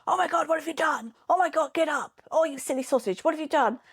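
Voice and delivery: high, impatient mock scolding; fussing at a fallen child, exasperated; exasperated mum. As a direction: mum telling the kid off for falling, exasperated and high. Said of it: "I'm like".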